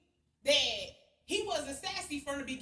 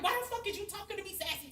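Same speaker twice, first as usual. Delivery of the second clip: retold angry yell; 7 semitones higher, faster than usual. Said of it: "I'm talking to him just like that".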